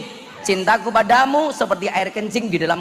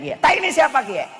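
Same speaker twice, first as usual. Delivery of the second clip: raised, curious Ngapak question; Ngapak speaker asking; 9 semitones higher than usual. Retold or imitated. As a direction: ask like a puzzled Tegal man. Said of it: "Orang ngapaknya bilang kayak".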